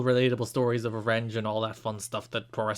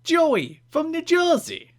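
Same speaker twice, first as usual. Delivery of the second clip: high, very slow New Jersey sign-off; New Jersey accent; 3 dB louder, slower than usual. Shown as a demonstration. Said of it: "read this in a New Jersey accent".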